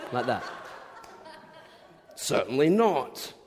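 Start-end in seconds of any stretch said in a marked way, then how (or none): 2.1-3.3 slow, drawn-out Northern English refusal; emphatic Yorkshire beaver voice; Yorkshire accent. Acted. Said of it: "maybe a Yorkshire accent".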